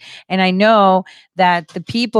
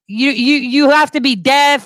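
normal talking voice

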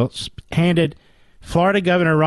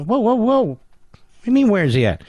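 high mock "whoa, whoa, whoa"; mock outrage; 6 semitones higher, faster than usual. Host retelling his reaction to bad grammar, mock outrage. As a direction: stop them in mock alarm. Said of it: "I go".

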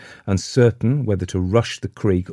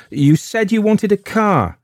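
faltering; 14 semitones higher, 6 dB louder than usual. A narrator's reading. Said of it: "she faltered".

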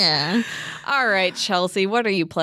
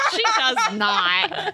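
laughing; 12 semitones higher, much slower than usual. Real, not acted. Laughing protest.

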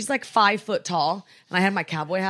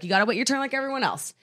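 gently imitating a nice reprimand; 3 semitones higher, faster than usual. Father telling pushy passenger to wait, mildly nice. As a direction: tell them to wait, kindly and without force. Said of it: "the way he said it was really nice".

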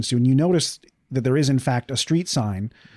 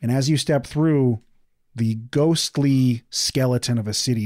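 eerie scene setting. A narrator's reading. GM describes the dead city.

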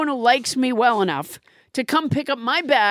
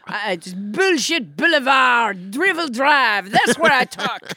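put-on French accent. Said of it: "A little bit of French Trump".

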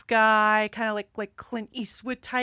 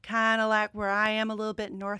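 light North Carolina drawl; Southern drawl. Shown as a demonstration. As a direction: ease slightly into a Southern drawl. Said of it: "kinda talk a little like this".

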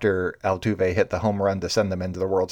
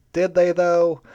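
skeptical jab; 9 semitones higher, 4 dB louder, slower than usual. Retold or imitated. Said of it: "everybody else is like".

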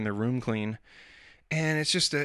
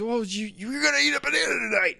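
a much higher, raised-voice parental shout; frustrated dad shout; 12 semitones higher than usual. Retold or imitated. Dad insisting his picky daughter eat a banana: raised, exasperated shout. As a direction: lay down the law, half joking.

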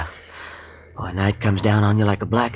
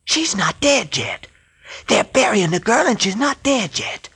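horrified; 12 semitones higher than usual. Acted. Skip tells the captain the girl is still alive, horrified. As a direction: spell out the horror slowly.

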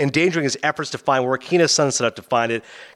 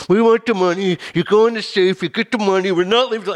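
raised-pitch insistent demand; mock robber's demand; 5 semitones higher than usual. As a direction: act out a hold-up. Acts out tense robbery demand.

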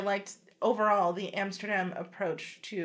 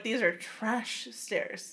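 disdainful; 3 dB quieter, much slower than usual. Retold or imitated. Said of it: "you were like".

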